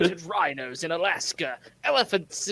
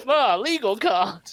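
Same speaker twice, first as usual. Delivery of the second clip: slow, louder imitation of someone lost for a reply; hammed-up flummoxed retort; mock stumped; 3 semitones higher, 5 dB louder, slower than usual. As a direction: draw it out as if comically stumped. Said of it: "someone so stumped that they were just like".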